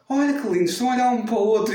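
high, fast and gushing; gushing mother. Retold or imitated. Imita a mãe enternecida. (mãe derretida, aguda e rápida)

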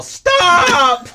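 loud, high shout at the device; yelled stop. Retold or imitated. Owner in a bad relationship with Alexa, loud shout. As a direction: bark the word to cut her off. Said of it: "you just have to yell".

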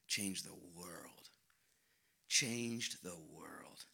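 hushed, very slow whisper. Acted. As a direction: breathe it out slowly in awe. Awed echo after preaching.

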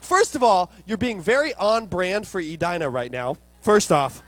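mock-indignant, loud opening jab; indignant comeback. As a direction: put her in her place, loudly.

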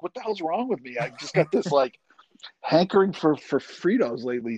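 talking through a mouthful of chips; chewing corn chips between words; crunching chips. Real, not acted. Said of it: "don't mind me crunching a little bit here".

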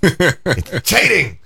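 mock Chinese accent. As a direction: imitate a Chinese accent on "cheating", stretching it into "chay-ting". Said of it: "so she has this funny accent".

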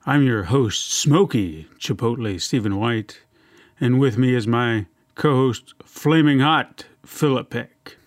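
lightly smooth, slow announcer; a hint of a silky TV host. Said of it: "trying to be that, that smooth, silky guy you see on T V".

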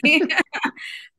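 a loud, high burst of laughter. Real, not acted. After quoting her refusal to cry, a high laugh. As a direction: laugh at yourself.

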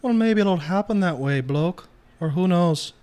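mock British tough-guy voice, lightly done; shitty put-on British accent. Partner mocking the other in a bad British accent. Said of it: "The last shitty accent I can pull out".

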